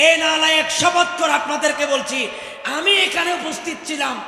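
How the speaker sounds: forceful, projected accusing sermon; indignant preaching. Real, not acted. Preacher swearing to what he witnessed in the mosque, indignant. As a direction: testify to the crowd in a full, insistent voice.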